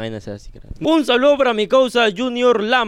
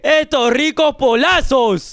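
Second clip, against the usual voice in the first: drawn-out, higher hawker's call; playful sales pitch; 4 semitones higher, 3 dB louder, slower than usual. Pretend. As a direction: sell it like a street vendor. Promociona polos como vendedor. (pregón de vendedor, alargado y juguetón)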